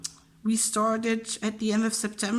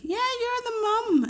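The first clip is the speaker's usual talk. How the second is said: teasing colleague. Retold or imitated. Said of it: "my colleagues also say".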